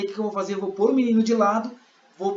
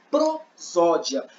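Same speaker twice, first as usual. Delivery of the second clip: very slow, higher-pitched key word; termo destacado; 6 semitones higher, 3 dB louder, much slower than usual. Shown as a demonstration. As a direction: stretch the term out for the class. Professora apresenta termo bem devagar. (palavra dita bem devagar)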